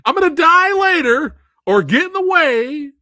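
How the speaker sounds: very high, melodramatic falsetto; hammed-up clichéd movie wife, slow and loud; mock devoted wife. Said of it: "the usual".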